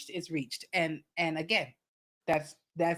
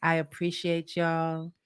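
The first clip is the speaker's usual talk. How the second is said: sincere; 5 semitones lower, much slower than usual. Real, not acted. Closing heartfelt thanks.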